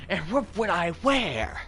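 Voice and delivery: high, swooping impression of a cartoon grouch; the Grinch. Streamer quoting a grouchy cartoon character, exaggerated put-on voice. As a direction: do a rough, not very good Grinch impression. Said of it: "as the Grinch would say".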